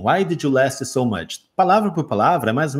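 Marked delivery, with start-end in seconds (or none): 0.0-1.4 put-on slow Brazilian-accented English, "last" gaining an extra vowel; learner's Portuguese-accented English. Teacher imitates his earlier mistake, Brazilian-accented learner English. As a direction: recite it like a Brazilian beginner translating word by word. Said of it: "Eu falava assim".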